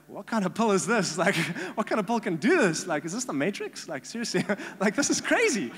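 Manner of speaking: high, loud, incredulous laughing; amazed, laughing at the absurdity; laughing disbelief. Retold or imitated. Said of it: "I'm like".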